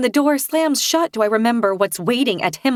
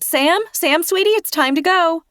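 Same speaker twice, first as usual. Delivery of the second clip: raised calling voice past the door; 9 semitones higher than usual. A narrator's reading. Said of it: "I lean past her and shout".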